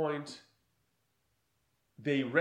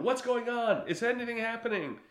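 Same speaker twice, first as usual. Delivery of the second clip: mock worried; 8 semitones higher than usual. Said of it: "The people back at the headquarters going".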